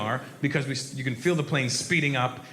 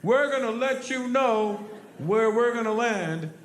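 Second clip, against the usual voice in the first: high, slow, drawn-out called announcement; big military guys; 7 semitones higher, slower than usual. Retold or imitated. Military crewmen notifying passengers on a plane, drawn-out high call. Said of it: "hear somebody on a plane tell us".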